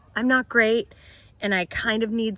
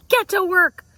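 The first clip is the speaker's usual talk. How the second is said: laughing exclamation; 9 semitones higher, 7 dB louder than usual. Real, not acted.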